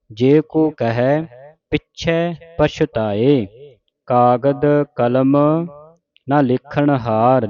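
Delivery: slow, measured model recitation; scripture recitation demo. Shown as a demonstration. Teacher showing congregation correct Japji Sahib reading, slow recitation. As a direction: recite it slowly for learners to copy. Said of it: "ਸ਼ੁੱਧ ਉਚਾਰਨ ਆਪਾਂ ਸਿੱਖ ਰਹੇ ਹਾਂ".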